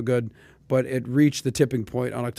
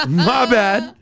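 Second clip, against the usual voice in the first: mock apology; 6 semitones higher, 4 dB louder than usual.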